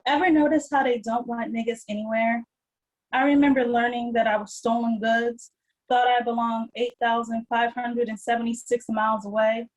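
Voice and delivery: measured, deliberate poem recital; poetry reading. Acted. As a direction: read it as spoken-word poetry, each phrase set apart. Reads own poem aloud.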